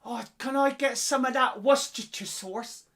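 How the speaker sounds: high, put-on asking voice; high-pitched mock request; imagined customer getting it wrong. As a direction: mimic someone asking for Worcestershire as "wuss-tuh-tuh". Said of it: "No, it's not. It's not right".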